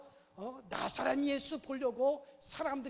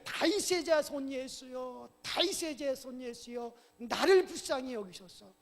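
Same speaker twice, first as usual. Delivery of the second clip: raised-voice plea, stretched at first; crying out; 3 semitones higher, 6 dB louder than usual. Acted. Blind beggar pleads with Jesus for mercy, crying out. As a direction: call out for mercy, hitting the first words. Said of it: "소리를 지르는 거예요".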